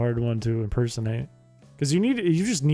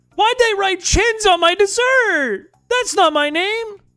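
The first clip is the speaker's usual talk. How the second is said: put-on chattering voice; 5 dB louder than usual. Answering a chat request, doing an impression of a viewer: imitating Chins. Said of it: "it would sound like this".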